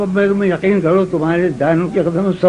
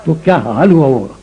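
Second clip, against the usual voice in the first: ghazal recitation; 3 semitones lower than usual. Acted. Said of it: "یہ غزل سنو".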